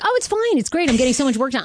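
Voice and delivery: high chirpy fake cheer; fake cheerful. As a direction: brightly pretend all is fine. Mocking interviewed furloughed workers.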